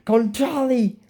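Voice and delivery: hissed, voiceless spell word; whispered spell. Retold or imitated. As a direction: breathe the curse out without voice. Villain casts killing spell.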